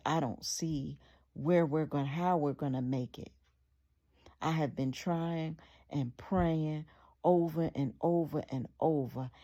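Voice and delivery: wife scolding her husband, fed up; standing up to him. Retold or imitated. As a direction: lay down the law to your husband. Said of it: "she stood up to him".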